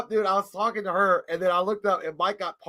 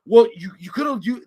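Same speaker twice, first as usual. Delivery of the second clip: mock girlfriend; 4 semitones higher, 5 dB louder than usual. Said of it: "she said that".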